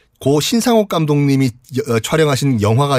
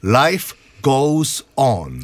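very slow; much slower than usual. Shown as a demonstration. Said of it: "teaching phrase, very slow".

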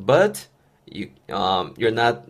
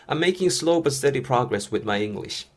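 very slow, every syllable laid out; slow model reading; much slower than usual. Shown as a demonstration. English teacher modeling the phrase for learners, very slow. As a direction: model it slowly for students to copy. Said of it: "아까 제가 응용한 것도 기억나시죠".

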